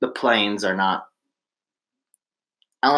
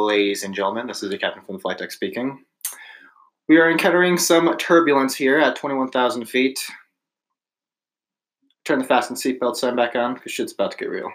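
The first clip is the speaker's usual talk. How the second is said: calm pilot announcement over the intercom; airline captain voice; 3 semitones higher than usual. Pretend. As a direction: do a cabin PA as the captain. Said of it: "let me hear your best, uh, airline captain voice".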